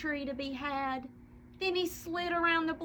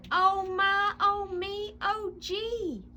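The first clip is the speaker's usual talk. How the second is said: put-on higher, rising alarm from a child; cried out; 5 semitones higher than usual. Junior crying out to his pop about the missing tree, higher alarmed cry. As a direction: yelp it out, worried and wide-eyed. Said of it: "cried Junior".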